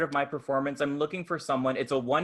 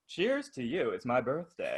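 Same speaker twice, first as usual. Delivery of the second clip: calm newborn; 5 dB quieter than usual. Pretend.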